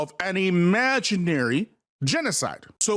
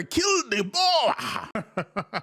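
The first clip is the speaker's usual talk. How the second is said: laughing; 2 semitones higher, much slower than usual. Real, not acted. Laughing slow mention.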